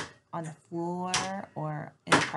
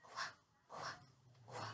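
motion sound; 17 dB quieter than usual. Shown as a demonstration. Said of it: "we put our finger up here and we go".

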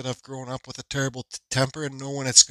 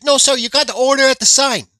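high mock voice of the cashier, pitched up; imitating the cashier; 10 semitones higher, 7 dB louder than usual. Retelling the hot dog cashier's order, mock high voice. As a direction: put on the cashier's voice, higher and a bit louder.

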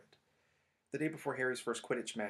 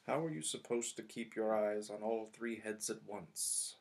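irritated complaint under his breath; grumbling Snape; slower than usual. Acted. Snape nursing his bitten leg, grumbling.

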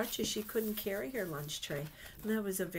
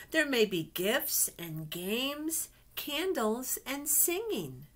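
lively picture-book storytelling voice; reading to children; 3 dB louder than usual. Acted. Teacher reading a picture book to her class, storytelling voice. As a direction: read it like a storybook to little ones.

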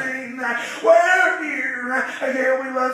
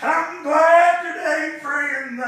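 preaching; 4 dB louder than usual. Acted. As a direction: preach it out to the congregation with rising fire. Preacher chanting to congregation.

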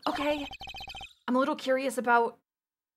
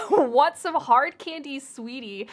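sweet granny voice; 4 dB louder, slower than usual. Pretend. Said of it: "Joy's voice".

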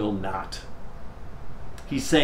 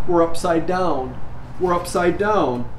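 sobs deepening; 5 semitones higher than usual. Acted. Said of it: "her sobs deepening".

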